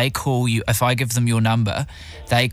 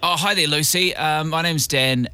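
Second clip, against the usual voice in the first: higher, slower, put-on fluster; flustered producer; 5 semitones higher than usual. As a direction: play the frazzled producer opening the call. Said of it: "a flustered producer who's not good at his job".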